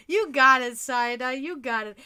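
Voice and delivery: cheering her on. Retold or imitated. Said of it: "I'm like".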